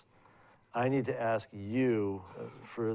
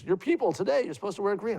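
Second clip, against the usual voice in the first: put-on higher-pitched, louder old landlady voice; elderly landlady; 9 semitones higher, 3 dB louder than usual. Old landlady scolding her tenant about green, pitched up and louder.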